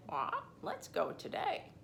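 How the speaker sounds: lightly voiced squawky parrot; a hint of a bird's squawk. Lovebird urging Ruby, mild squawk. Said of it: "in a squawky voice".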